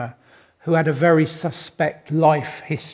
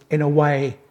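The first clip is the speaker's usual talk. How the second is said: ordinary delivery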